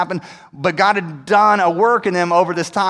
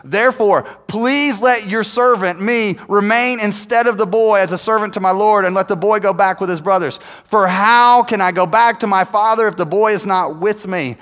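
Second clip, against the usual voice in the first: raised, emphatic plea; big closing appeal, pitched up and forceful; impassioned closing argument; 2 semitones higher, 3 dB louder than usual. Acted. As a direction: plead earnestly, leaning hard on the key words. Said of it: "his big closing argument".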